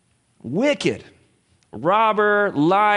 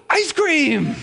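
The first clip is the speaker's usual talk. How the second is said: put-on childlike delight; 11 semitones higher, 4 dB louder than usual. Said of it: "He's like, gasps".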